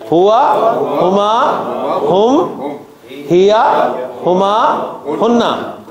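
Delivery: slow chant for the class to repeat; teacher chanting pronouns with students; call and response drill. Shown as a demonstration. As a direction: lead the class through the list. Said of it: "अब जरा मेरे साथ बोलें आप".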